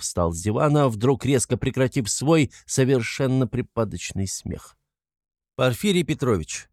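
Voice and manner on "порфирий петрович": measured, distinct address; loud and distinct. A narrator's reading. Raskolnikov confronting the investigator, distinct and formal. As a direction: pronounce each name deliberately, firmly. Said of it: "проговорил он громко и отчётливо".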